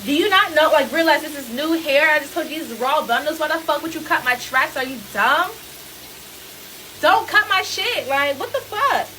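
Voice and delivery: angry rant. Retold or imitated. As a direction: tear into her like she's dumb. Retold furious rant at stylist.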